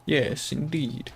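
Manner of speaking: put-on British accent, drawn out; attempted British accent. Shown as a demonstration. Streamer showing chat their unreliable accent, attempted British accent. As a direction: try on a mock British accent. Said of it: "the funny thing about that accent".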